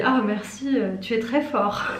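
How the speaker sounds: jokey thanks breaking into a laugh; joking. Retold or imitated. Joking to a warehouse worker who moved a table for her, laughing. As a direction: tease him with playful thanks. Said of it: "Mais en rigolant".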